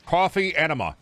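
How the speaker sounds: high, loud joking yell; a silly shouted dare; mock shout. Real, not acted. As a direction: bellow the gag line up high. Yelled joke at game.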